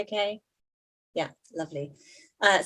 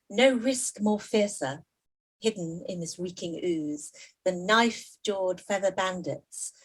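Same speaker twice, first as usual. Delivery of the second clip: poetry reading. Acted. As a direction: savour the murky images, then plead at the close. Poet reads her last poem.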